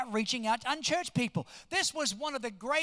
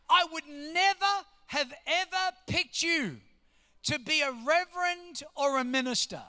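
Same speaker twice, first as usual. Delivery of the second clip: astonished; 4 semitones higher than usual. Retold or imitated. Gas attendant amazed at who is a minister, astonished. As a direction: draw it out in mock amazement. Retelling man's astonished verdict.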